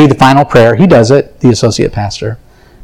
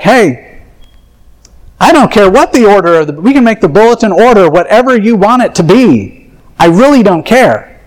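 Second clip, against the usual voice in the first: higher and faster, a hammed-up snap of annoyance; mock irritated outburst; 4 semitones higher than usual. Pastor reenacting what he felt like saying, mock irritated. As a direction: fire it off like a fed-up helper. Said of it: "I didn't speak to him like that".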